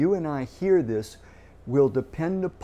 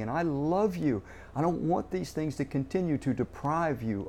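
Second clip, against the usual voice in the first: loving God. Retold or imitated. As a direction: speak as a God who cares deeply. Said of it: "a loving God saying".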